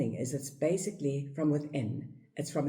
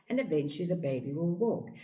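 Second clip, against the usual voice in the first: ordinary delivery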